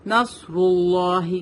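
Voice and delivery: نصر اللہ slowly, with a heavy ص; weight the ص in نصر اللہ; heavy sad. Shown as a demonstration. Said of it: "سواد is a heavy letter". (نصر اللہ میں موٹا صاد)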